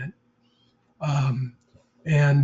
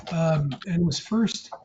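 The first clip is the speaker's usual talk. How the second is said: breathless, halting words; short of breath; 2 semitones higher than usual. Real, not acted. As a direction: talk while out of breath. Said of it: "I'm short of breath".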